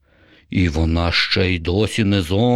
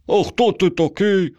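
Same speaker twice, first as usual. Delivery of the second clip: much higher, naive little voice; high childlike voice; 12 semitones higher than usual. A narrator's reading. Vanya asking the zombie who he is, high and naive. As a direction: ask it like a simple, trusting youngster.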